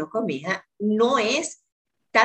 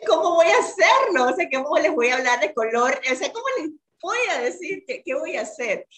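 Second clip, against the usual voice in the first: retold panic; 8 semitones higher than usual. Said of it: "Entonces yo decía".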